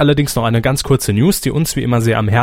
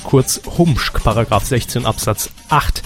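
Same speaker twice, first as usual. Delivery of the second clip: formal announcement. Acted. Formal legal disclaimer read.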